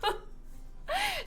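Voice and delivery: high, slow, laughing realtor voice; mock realtor, laughing. Realtor showing a kitchen in the bathroom, high laughing voice. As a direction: hold back a giggle while presenting it grandly.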